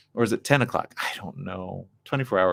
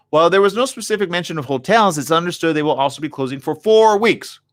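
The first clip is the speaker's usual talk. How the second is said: reading aloud; 7 semitones higher, 4 dB louder than usual. Real, not acted. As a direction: read the article out, slightly raised voice.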